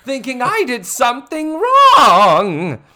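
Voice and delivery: weepy relief. Retold or imitated. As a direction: ham up a near-sob of relief. Teacher relieved after worrying.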